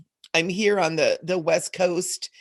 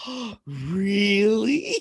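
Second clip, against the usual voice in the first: laughing surprise; much slower than usual. Real, not acted.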